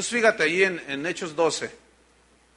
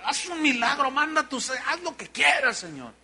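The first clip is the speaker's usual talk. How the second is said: tearful plea; 5 semitones higher, 4 dB quieter than usual. Retold or imitated. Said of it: "Empezaron a orar, a interceder".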